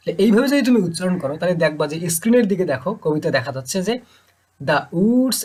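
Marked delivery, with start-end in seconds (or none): 4.6-5.4 quick "The", drawn-out "woods"; iambic stress. Shown as a demonstration. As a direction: skim over "The" and lengthen "woods". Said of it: "এই the দ্রুত বললাম". ("The" দ্রুত, "woods" টান দিয়ে)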